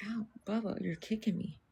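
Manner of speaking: pained whisper. Real, not acted. Dog kicking her on stream.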